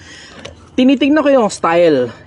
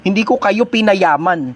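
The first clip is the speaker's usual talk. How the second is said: slow emphasis; slower than usual. Real, not acted. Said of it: "repeated for emphasis".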